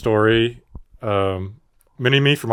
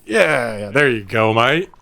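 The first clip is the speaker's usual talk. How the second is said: mock Australian. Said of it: "with an Australian accent".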